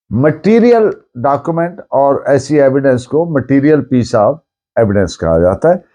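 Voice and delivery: ordinary talk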